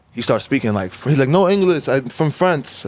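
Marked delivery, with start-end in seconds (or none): 1.3-2.9 a light imitation of a French accent. Narrator retelling the French kid's reply in a mock French accent. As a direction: mimic a French tourist's English, higher. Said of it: "starts with a crazy accent".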